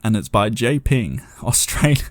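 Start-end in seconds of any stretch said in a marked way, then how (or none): 1.4-2.0 Australia in a broad Aussie accent, Aus-TRAY-lia; Australian accent. Shown as a demonstration. Reading out where a listener's story comes from, in a broad Australian accent. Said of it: "I say Australia with an accent".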